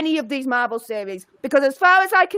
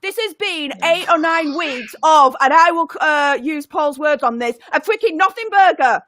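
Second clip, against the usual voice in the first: full rant; 3 semitones higher than usual. Acted. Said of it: "I want full Emperor Palpatine here".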